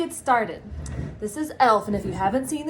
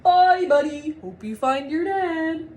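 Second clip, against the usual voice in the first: higher, louder cheery goodbye call; elves' farewell; 5 semitones higher, 5 dB louder, slower than usual. Acted. The elves calling goodbye to Buddy as he leaves, higher and louder. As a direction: wave him off fondly.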